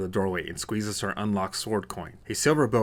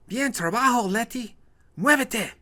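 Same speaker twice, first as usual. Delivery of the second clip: yell; 13 semitones higher, slower than usual. Acted. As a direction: shout across the hallway. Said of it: "The Hispanic woman yells".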